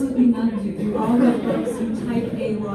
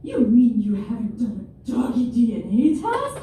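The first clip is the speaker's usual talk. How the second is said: aghast; 5 dB louder, slower than usual. Retold or imitated. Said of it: "She was aghast. She was mad".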